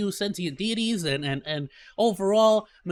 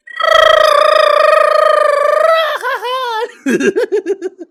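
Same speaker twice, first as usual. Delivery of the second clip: long loud trilled R like a laugh; rolled r; 11 dB louder than usual. Shown as a demonstration. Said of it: "See that, bro?".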